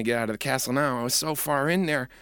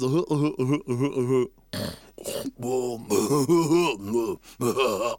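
giraffe laugh; 3 semitones lower, slower than usual. Acted. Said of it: "He goes".

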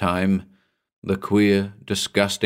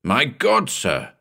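higher-pitched, urgent gasp of warning; alarmed exclamation; 4 semitones higher, slower than usual. Acted. Narrator hearing something at the rail, alarmed exclamation. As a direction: alert him in sudden dread.

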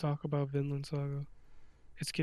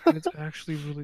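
fast excited burst; loud and fast; 8 dB louder, faster than usual. Acted. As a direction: blurt it out loud. Hyped then whispered repeat.

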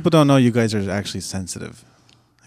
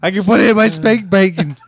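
higher hammed-up creep voice; creepy guy voice; 7 semitones higher, 4 dB louder than usual. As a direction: keep the leering creep going. Continuing creepy voice bit.

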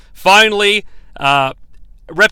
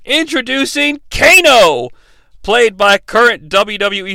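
mock announcer introduction. Host introduces a character to listeners, mock announcer. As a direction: introduce him like a fighter, playfully.

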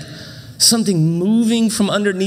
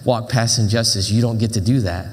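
dad's voice; 5 semitones lower than usual. Retold or imitated. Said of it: "my dad's voice in my head".

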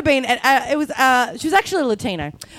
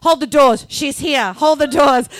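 louder, urgent relayed order; walkie-talkie call; 2 semitones higher, 5 dB louder than usual. Retold or imitated. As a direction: imitate a man calling over walkie-talkie. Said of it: "on the walkie-talkie, goes".

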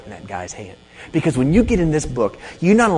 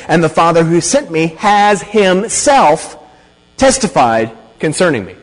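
slow, raised, emphatic scripture reading; emphatic statement; 4 semitones higher, 4 dB louder, slower than usual. Shown as a demonstration. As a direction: stretch and stress HIMSELF, pausing before "testified". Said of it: "an emphatic statement would be something like".

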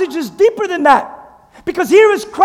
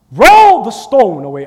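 louder, slower, firm command to roll the stone; commanding call; 5 semitones lower, 4 dB louder than usual. Shown as a demonstration. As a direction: order it with authority, slowly. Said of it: "How, how do you say that?".

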